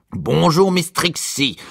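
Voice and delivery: high, exuberant tenor greeting; big cheery tenor voice. A narrator's reading. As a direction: sing out a hearty hello at the top of your range. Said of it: "de son exubérante voix de ténor".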